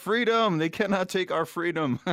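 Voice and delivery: laughing mock war cry to the troops; Mel Gibson battle cry. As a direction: shout it like a Braveheart rallying cry. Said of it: "speaking like Mel Gibson on, uh, Braveheart".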